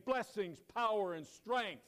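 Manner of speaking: high, loud cry of blessing; retold shout. The speaker encouraging the sculptors, loud and high. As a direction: call it out like a man on God's throne. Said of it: "shouting and pointing his finger".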